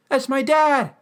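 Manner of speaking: shocked outburst, high and loud; Eugene. Retold or imitated. Eugene discovers the name on the tombstone, mock shocked cry. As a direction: cry it out in sudden alarm. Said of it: "And then Eugene's like".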